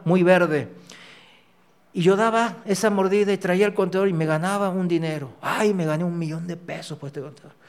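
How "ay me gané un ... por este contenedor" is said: softer, fast, delighted with the money; a hint of greedy glee; mock gleeful boast. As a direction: imitate a man thrilled with his bribe profits. Retells his old greedy joy.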